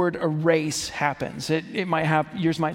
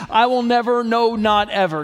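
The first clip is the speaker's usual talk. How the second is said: NEVER and NOT EVER hit louder; emphatic never; 4 semitones higher, 4 dB louder than usual. Shown as a demonstration. Preacher stressing God's promise with emphatic never. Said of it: "It means".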